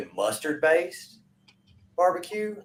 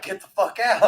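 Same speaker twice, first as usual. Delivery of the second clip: higher-pitched retold New York ejection; New York accent; 6 semitones higher than usual. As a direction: imitate a New Yorker kicking someone out. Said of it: "they had the accent and everything".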